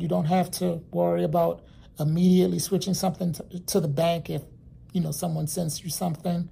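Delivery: talking around gum in mouth; chewing gum. Real, not acted. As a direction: chew gum while you speak. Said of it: "if I'm talking funny, it's because I have some gum in my mouth".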